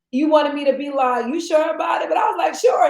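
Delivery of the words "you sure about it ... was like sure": loud call. Retold or imitated. Retold exchange, calling out.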